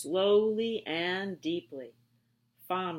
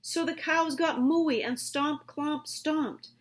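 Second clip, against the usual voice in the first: excited; 6 semitones higher than usual. A narrator's reading. Recess bursts into noise.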